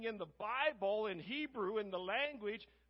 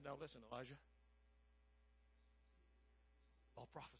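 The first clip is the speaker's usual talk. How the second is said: much softer, low and secretive, like pulling someone aside; hushed aside; 8 semitones lower, 20 dB quieter, much faster than usual. Retold or imitated. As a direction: lean in and murmur it low. King's man pulls prophet aside.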